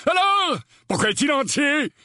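high-pitched, challenging uncle; indignant exclamation. A narrator's reading. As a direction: throw the question out loudly. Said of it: "s'exclama l'oncle Vernon". (exclamation indignée, voix aiguë)

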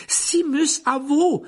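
loud, high teacher's call. A narrator's reading. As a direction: call the next pupil up sharply. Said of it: "lança le professeur Lupin". (appel lancé fort et aigu)

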